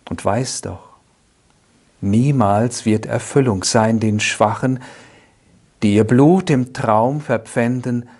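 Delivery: solemn poetry reading, strong openings falling away at line ends; poem recitation. Acted. Speaker recites Ernst Stadler's first poem to listeners, measured poetic recitation. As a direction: recite the verse with measured pauses.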